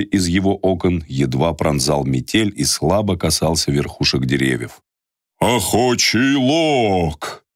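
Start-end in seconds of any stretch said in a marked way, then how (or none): 5.4-7.5 glad. Acted. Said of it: "радостно сказал старик".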